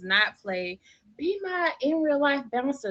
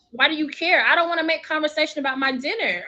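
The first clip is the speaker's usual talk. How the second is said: raised, exasperated voice; annoyed and loud; 5 semitones higher, 5 dB louder than usual. Real, not acted. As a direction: snap back, fed up. Indignant rant.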